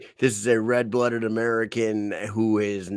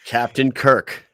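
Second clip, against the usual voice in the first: slow, loud hype intro of the name; announcing the name; 2 semitones higher, 6 dB louder, slower than usual. Real, not acted. Host hyping up the guest's name, slow and loud. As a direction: draw out the name like a ring announcer.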